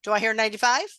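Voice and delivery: playful auctioneer call. Pretend. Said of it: "I'm gonna sound like an auctioneer".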